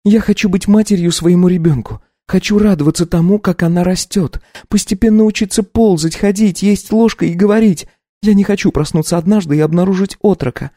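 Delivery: put-on high young wife voice, taken aback; lifted, incredulous young woman; Katya, startled wife. Wife asks her husband to repeat himself.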